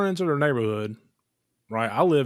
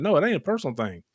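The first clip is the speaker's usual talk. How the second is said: emphatic retort; 7 semitones higher than usual. Retold or imitated. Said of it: "I was like".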